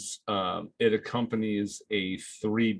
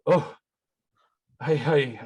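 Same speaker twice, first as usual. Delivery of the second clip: calmed down; 4 semitones higher, 4 dB louder than usual. Acted. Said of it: "You see him calm down and goes".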